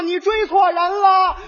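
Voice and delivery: high, loud and slow; shouting back. Retold or imitated. Brother shouts that she has the wrong man. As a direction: stretch it out to carry.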